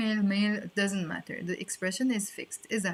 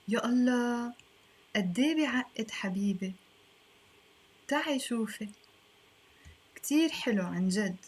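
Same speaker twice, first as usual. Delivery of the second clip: lightly acted, fast dialogue read; 2 semitones higher, faster than usual. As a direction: read the scene like the smitten speaker. Reads dialogue in role.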